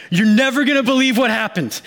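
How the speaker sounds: breathless, high-pitched retelling; wife bursting to tell her husband the news, excited high voice. Retold or imitated. Wife retelling snake story excitedly.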